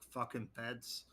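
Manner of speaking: low-volume hostile grumble; slow, soft mumble under the breath; mumbled under breath. Acted. Older man glaring at passing agents, mumbling under his breath. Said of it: "mumbles under his breath".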